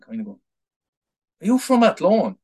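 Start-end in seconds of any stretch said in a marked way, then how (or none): 1.4-2.4 imitating a flat Athlone accent, pitched higher and louder. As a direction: ask it like a flat Athlone local. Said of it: "in the flattest Athlone accent".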